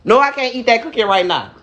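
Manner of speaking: lisping through a gap in the teeth; missing front teeth. Real, not acted. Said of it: "I can't even pronounce my words right because my teeth is gone".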